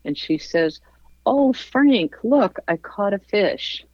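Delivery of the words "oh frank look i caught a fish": mock delighted wife, pitched up; excited wife. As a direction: call out a proud little surprise. Wife showing off her catch.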